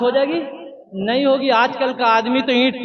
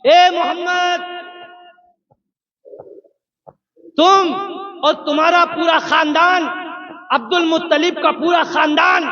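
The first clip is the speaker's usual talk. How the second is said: a raised, accusing call of اے Muhammad, rougher than the narration; retold angry shout; 4 semitones higher than usual. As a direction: shout the insult from behind like an angry creditor. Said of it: "بڑی زور سے چیخ لگائی".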